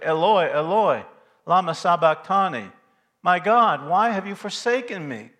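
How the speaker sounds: proclaimed cry of anguish; crying out to God. Retold or imitated. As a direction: call it out loud and high, as a retold cry from the depths. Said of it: "he's crying out to".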